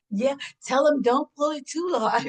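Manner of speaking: a playful half-shout about the wig; joking mock shout.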